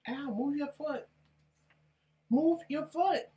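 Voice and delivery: high pained complaint; wife crying out at a stepped-on toe. Real, not acted. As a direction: yelp it, someone's on your toe. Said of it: "toe stepped on".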